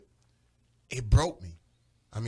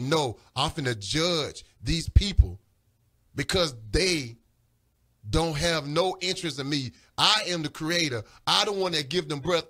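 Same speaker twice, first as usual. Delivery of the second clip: voice of God; 4 dB louder than usual. Retold or imitated. God voiced in retold vision.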